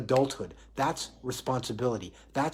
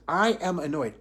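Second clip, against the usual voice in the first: consumed by annoyance; 3 semitones higher, 4 dB louder than usual. Shown as a demonstration. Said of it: "all there is is annoyance".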